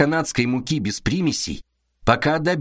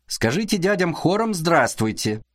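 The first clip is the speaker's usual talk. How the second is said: chirping; 5 semitones higher than usual. Acted. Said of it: "прощебетала она".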